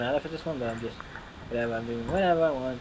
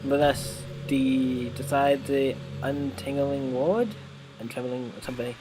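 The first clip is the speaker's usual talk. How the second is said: poem reading; slower than usual. Acted. Monika reads her poem aloud.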